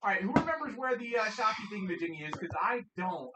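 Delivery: ordinary talk, nothing marked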